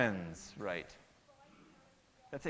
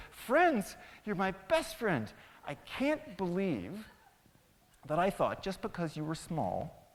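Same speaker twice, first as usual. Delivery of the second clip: grateful lion. Acted.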